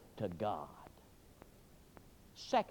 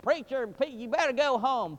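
policeman advising; 9 semitones higher, 7 dB louder than usual. Retold or imitated. Policeman scolding the preacher.

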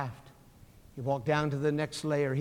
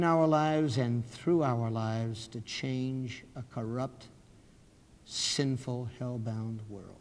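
solemn prayer. Real, not acted. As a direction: lead them gravely in prayer.

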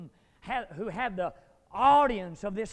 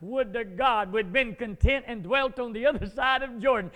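whining; 5 dB louder than usual. Acted. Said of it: "sound like a whining church member".

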